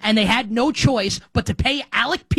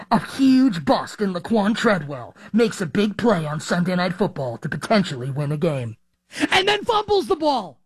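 dramatic trailer narrator voice; movie trailer voice; 2 semitones lower than usual. Shown as a demonstration. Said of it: "I'm not really the movie trailer voice type of guy".

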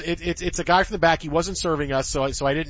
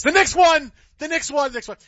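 excited cheer; 9 semitones higher than usual. Retold or imitated. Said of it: "my default is".

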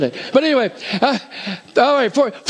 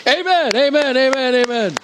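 joyful amen; 8 semitones higher than usual. Real, not acted. Pastor rejoicing over long-saved.

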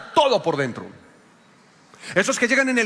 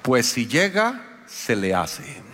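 slow, dry, dropping to a murmur; lightly voiced wife, unbothered; wife's curt reply; 6 semitones lower, much slower than usual. Pastor quoting his wife's curt text, slow and dry.

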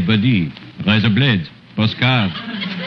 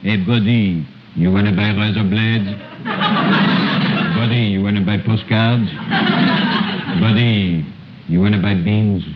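put-on storyteller with a thick French accent throughout; 2 semitones higher than usual. Comic uncle retelling Jack and the Beanstalk in French accent. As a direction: tell the fairy tale in broken French-accented English.

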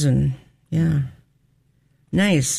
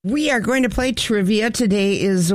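announcer hype; 6 semitones higher than usual. Real, not acted. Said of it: "announcing trivia segment".

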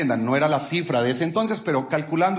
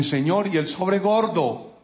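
mock slow complaint; 3 semitones higher, slower than usual. Complaining to God jokingly.

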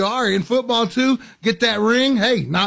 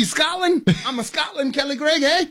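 bad Scottish accent; 5 semitones higher than usual. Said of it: "That's terrible, too".

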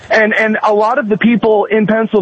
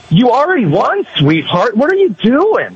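mock exasperated scolding; 4 semitones higher than usual. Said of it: "This is like".

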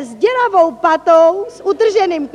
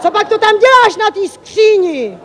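raised, questioning husband's voice; mildly incredulous question; husband's baffled question; 3 semitones higher than usual. Retold or imitated. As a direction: imitate a husband puzzled by what he finds. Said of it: "tázal se můj manžel".

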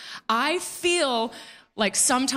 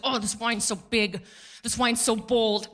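pompous snob. Retold or imitated. Pompous snob describing wine.

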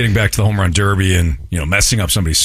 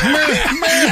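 mocking white guy voice. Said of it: "Kerry goes".

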